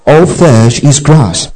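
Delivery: slow, measured group recitation; slow call to recite in unison; recited together. Shown as a demonstration. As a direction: lead the room in saying it slowly. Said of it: "Let's say it one more time".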